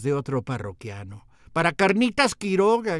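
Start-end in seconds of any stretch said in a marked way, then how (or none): 1.5-3.0 louder, higher proud boast; mock shout of a restaurant patron. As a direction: patron shouting praise, lightly hammed. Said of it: "gritó".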